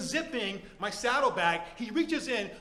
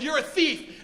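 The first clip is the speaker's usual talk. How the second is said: accusing; 5 semitones higher, 4 dB louder than usual. Acted. Acted quarrel, accusing the thief.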